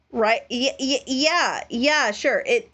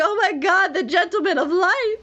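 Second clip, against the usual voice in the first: excited gush; 9 semitones higher than usual. Retold or imitated. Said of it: "He's like".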